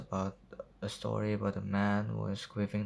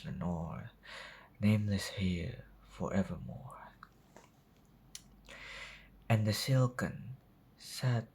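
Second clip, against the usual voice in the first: measured reading with pauses between phrases; poem recitation. Acted. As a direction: recite it line by line, dramatically.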